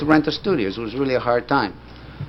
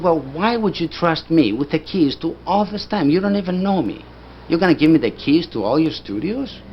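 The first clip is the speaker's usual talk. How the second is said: higher-pitched, disbelieving questions; incredulous; 5 semitones higher than usual. Retold or imitated. Narrator questioning the studio owner's trust, incredulous. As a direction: press him with astonished questions.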